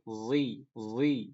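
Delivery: "Zi" with a clear voiced z; demo of zai sound. Shown as a demonstration. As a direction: buzz the z in "Zi". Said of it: "masuk ke zai".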